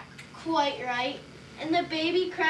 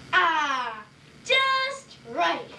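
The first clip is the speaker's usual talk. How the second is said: gleeful doctor; much slower than usual. Acted. Doctor delighted with huge needle.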